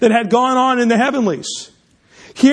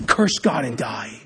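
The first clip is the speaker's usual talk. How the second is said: softer, slow, hushed into an ear; whispered; 10 semitones lower, 6 dB quieter, slower than usual. Acted. Wife whispering to suffering Job, soft and slow. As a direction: breathe it low into his ear like a temptation. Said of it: "And she whispers into his eye".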